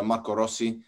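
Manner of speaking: name said with an Italian twang. Real, not acted. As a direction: give Marco Rossi some Italian twang. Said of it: "You said that with some twang".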